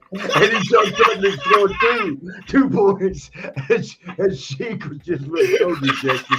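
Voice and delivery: high, loud words through laughter; real helpless laughing while talking; laughing hard. Real, not acted. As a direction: barely get the punchline out. Cracking up at own story.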